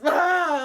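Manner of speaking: loud, high imitation wail; mock crying wail. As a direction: imitate an ugly-crying outburst. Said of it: "I was, like, ugly crying".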